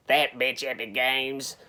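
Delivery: a slow, light Southern US drawl; mock Southern US accent. Teller imitating Mick ranting about Epic Games, with a slow, light Southern US accent. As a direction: imitate his slow Southern US twang, half-heartedly. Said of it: "his voice always went a little bit southern".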